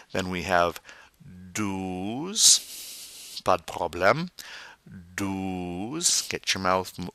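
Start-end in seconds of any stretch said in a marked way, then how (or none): 1.5-2.6 "douze" with a long round oo; rounded mouth. Shown as a demonstration. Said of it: "nice and round". 5.1-6.2 "douze" with a long round oo; rounded mouth. Shown as a demonstration. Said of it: "nice and round".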